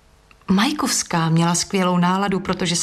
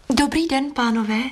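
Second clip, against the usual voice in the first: calling out; 5 semitones higher than usual. A narrator's reading.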